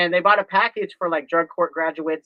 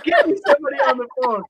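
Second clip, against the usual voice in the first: annoyed demand; 7 semitones higher, 4 dB louder, faster than usual. Retold or imitated. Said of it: "madder and madder".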